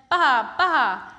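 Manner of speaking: loud bleating baa; sheep bleating. Acted. Sheep noise.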